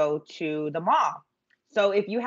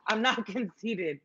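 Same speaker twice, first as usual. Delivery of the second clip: laughing denial; 2 semitones higher, 5 dB quieter, slower than usual. Real, not acted. Joking denial after laughing.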